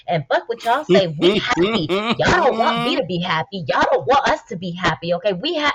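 high, defiant mocking voice; hammed-up brash bragging; imitating her live rant. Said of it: "where she's like".

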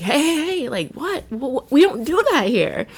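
high-pitched stop-it scold; lightly voiced counselor breaking up a brawl; mock scolding camp counselor. Breaking up a kids' fight.

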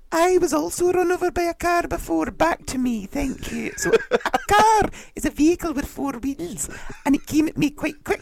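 very high self-absorbed presenter; hammed-up high-pitched TV host; Lorraine Kelly. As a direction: grab the chat back in a squeaky host voice. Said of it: "Everything's always about her as well".

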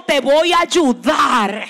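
slow steady divine reassurance; God's reassuring promise. Retold or imitated. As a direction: reassure slowly as the Lord. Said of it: "el Señor te dijo".

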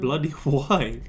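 slow, hammed-up British "Bloody why?"; mock British. Friend doing the dare in a hammed-up British accent. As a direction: play a cartoon Brit, slowly. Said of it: "speak in a British accent".

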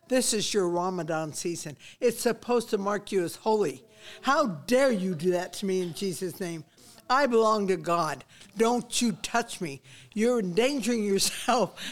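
loud, stern scolding of a crowd; stern public rebuke. Retold or imitated. Woman scolding the market crowd during Ramadan, loud and stern. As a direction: lecture the whole crowd loudly and sternly. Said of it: "Don't ever speak like that".

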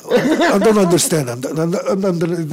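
high, loud put-on Indian accent, hammed up; mock Indian accent. Rapper mocking his own Indian accent when facing a British guy. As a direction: play up an Indian accent for laughs. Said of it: "je vais avoir l'accent indien".

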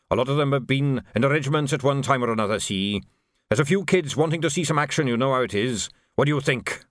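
put-on an old soldier filling in his commander; sergeant reporting. Narrator voices Dickens reporting.

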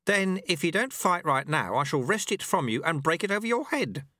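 put-on a wry old sweeper teaching his apprentice; old monk Lu Tse. A narrator's reading. Old master speaks to the dojo monks, wry.

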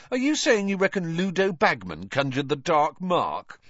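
high-pitched disbelieving question; incredulous. A narrator's reading. Ron questioning Hermione's suspicion of Bagman, incredulous. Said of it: "said Ron incredulously".

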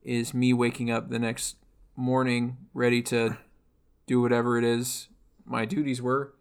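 put-on a light Russian-accented man's voice, mostly steady; understated Russian-accented robot telling her past; husky Russian man. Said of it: "which is why that I sound like this, which is why I sound like a husky Russian man".

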